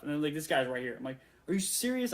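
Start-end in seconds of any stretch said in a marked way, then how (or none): 1.5-2.1 starstruck disbelief. Retold or imitated. To the Bad Robot producer in the parking lot, high excited disbelief. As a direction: squeal it like a starstruck fan. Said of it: "I'm, like, freaking out a little bit".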